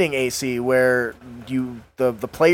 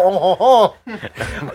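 mock French exclamation; 3 semitones higher, much slower than usual. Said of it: "I was gonna go".

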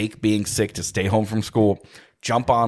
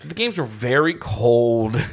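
whisper; slower than usual. Real, not acted. Unvoiced aside.

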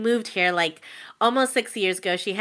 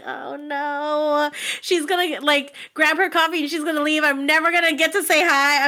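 higher, breathless little panic; mock panic; 5 semitones higher than usual. Fan retelling her panic to her cohost, higher mock panic. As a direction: fret that she'll leave before you say hi. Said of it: "I was, like, panicking a little bit".

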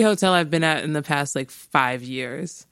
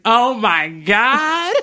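excited gasp; 7 semitones higher, 5 dB louder, much slower than usual. Retold or imitated. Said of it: "I was like".

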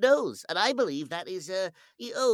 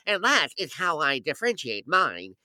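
Joe Alasky impression; 5 dB louder than usual. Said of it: "classic Joe Alasky going".

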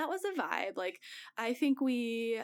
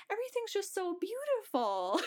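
high, lightly voiced tearful awe; a hint of weepy wonder; mock awed friend; 9 semitones higher than usual. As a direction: imitate a tripping friend overwhelmed. Crying friend on acid.

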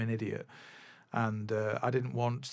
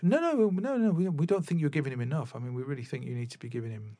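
mock posh dad, pitched up at the start then rushing; stupid posh voice. Annoyed dad insisting to the drum teacher, in a mock posh voice. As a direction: send up an annoying posh father. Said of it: "I know I'm doing some stupid posh voice".

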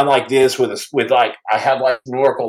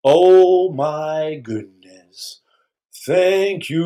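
mock gratitude; much slower than usual. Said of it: "I'm like".

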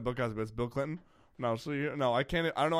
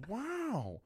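very slow, much higher, softer drawl; Owen Wilson impression; 13 semitones higher, 5 dB quieter, much slower than usual. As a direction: stretch the wow out.

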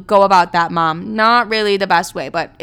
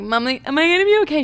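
mock worry; 8 semitones higher, faster than usual. Anxious plea to mom.

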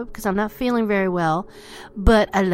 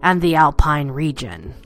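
sneering panto villain; 5 dB louder than usual. Acted. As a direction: sell it like a hammy stage villain. Dramatic villain build-up before cackle.

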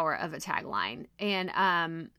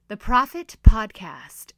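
radio voice; 11 dB louder, slower than usual. Shown as a demonstration. Podcaster clowning with a radio announcer voice. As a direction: boom it out like a radio host. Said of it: "I got my radio voice on".

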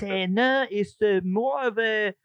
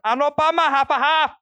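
mock Asian accent; 7 semitones higher, 4 dB louder than usual. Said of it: "when he's doing Korea or China".

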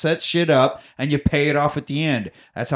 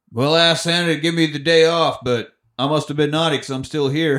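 lightly voiced jolly guard; security guard. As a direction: joke along as a put-upon gatekeeper. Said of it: "Al the security guard".

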